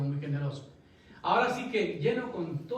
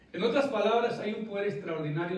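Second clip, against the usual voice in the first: raised high and loud to drive the point; preaching emphasis; 4 semitones higher, 4 dB louder than usual. Real, not acted. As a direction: call it out over the congregation. Preacher pressing his point home. (énfasis de predicador, en voz alta)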